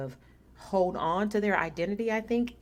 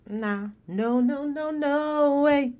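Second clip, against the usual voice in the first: high, loud no no no; emphatic refusal; 9 semitones higher, 6 dB louder, slower than usual. Retold or imitated. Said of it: "workers are saying".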